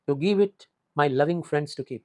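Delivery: each word drawn out, very slow; slow poem recitation. Shown as a demonstration. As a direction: read the verse slowly. Teacher reciting the poem line. (धीमी कविता पाठ शैली)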